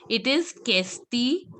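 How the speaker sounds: Castile said plainly, as the correction; correcting the word question; French question. Shown as a demonstration. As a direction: set them right with a clear Castile. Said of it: "Again, I will just tell you".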